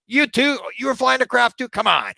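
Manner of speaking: high, loud "You too?" of mock disbelief; incredulous. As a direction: exclaim it, can't believe it again. Another claimant, teller incredulous.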